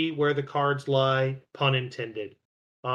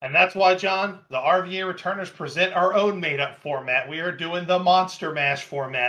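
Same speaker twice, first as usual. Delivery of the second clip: higher-pitched show announcement voice; playful, hyped-up format announcement; mock announcer; 5 semitones higher than usual. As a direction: present it like a grand reveal.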